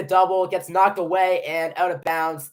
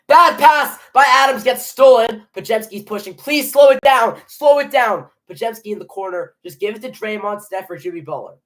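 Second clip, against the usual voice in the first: live play-by-play; 2 semitones higher, 6 dB louder than usual. Real, not acted. Fan narrating the possession for viewers, live play-by-play. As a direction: call each pass as it happens, urgent at turnovers.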